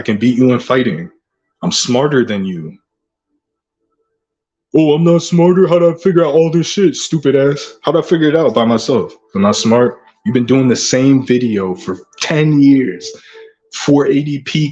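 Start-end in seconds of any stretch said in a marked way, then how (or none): 4.7-10.0 mock sneering rival.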